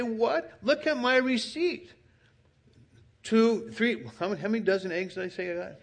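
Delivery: high, incredulous protest of an accused shopper; indignant protest. Acted. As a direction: act out the wronged customer, pitch up high. Preacher acts out indignant shopper.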